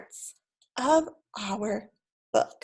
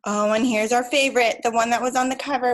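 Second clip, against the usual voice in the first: excited gasp; 4 dB louder, faster than usual. Acted.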